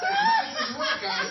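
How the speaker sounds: mock bewildered squeak; high confused voice. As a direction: pipe up like a baffled kid. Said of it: "It's like".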